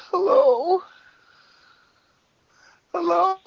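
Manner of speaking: tearful, sobbing caller; crying on the phone. Acted. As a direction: cry and plead down the phone line.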